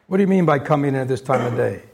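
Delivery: a hint of a gruff Scrooge, quick; stern Scrooge. Scrooge scolding late Bob, lightly voiced stern. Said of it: "Scrooge says".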